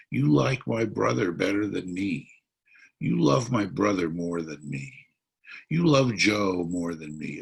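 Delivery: put-on whining like a jealous little kid; whiny child. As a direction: complain like a sulky child who feels unloved. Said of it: "He sounded like a whiny child".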